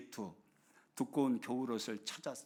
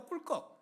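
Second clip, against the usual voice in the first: gulp; 13 semitones higher, 4 dB quieter than usual. Pretend. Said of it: "병아리 water swallow".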